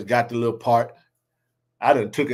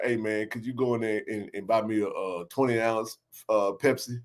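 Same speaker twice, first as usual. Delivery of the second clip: asking stranger; 4 semitones lower, 7 dB quieter than usual. Retold or imitated. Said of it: "be like".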